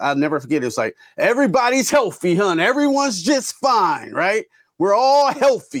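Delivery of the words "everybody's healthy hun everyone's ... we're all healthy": mock top-of-the-lungs shriek, very high and drawn out. Retelling an old man in a store yelling over missing masks: imitating a man screaming. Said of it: "screaming at the top of his lungs".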